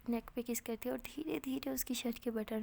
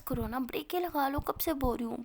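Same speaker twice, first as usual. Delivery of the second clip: louder, exasperated telling-off; fed-up lover's protest; exasperated plea; 3 semitones higher, 5 dB louder than usual. Acted. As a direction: beg them crossly to stop. Acted bickering, pleading to stop.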